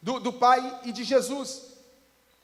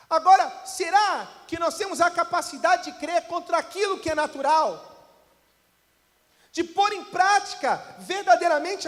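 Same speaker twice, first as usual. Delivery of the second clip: shouted, slowing sermon climax; fiery preacher's cry; preaching at full force; 3 semitones higher, slower than usual. Acted. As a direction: drive the challenge home to the church.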